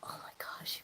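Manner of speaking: hushed awed whisper. Real, not acted. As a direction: whisper it in awe. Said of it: "I feel like I have to whisper".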